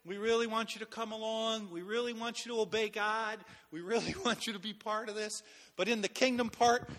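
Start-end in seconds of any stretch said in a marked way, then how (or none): 0.0-5.4 soft, even-toned polite invitation; gentle coaxing. Acted. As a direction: coax mildly, keeping it soft. Mimics a mild, coaxing invitation.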